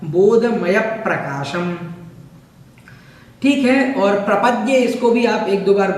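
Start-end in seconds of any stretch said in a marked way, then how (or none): 0.1-1.8 बोधमय प्रकाशम slow, weight on बोधमय; stress on बोधमय. Shown as a demonstration. Teacher shows students where to press in बोधमय प्रकाशम. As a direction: lean on बोधमय, slowly. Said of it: "थोड़ा सा जोर लगाना है यहाँ पर".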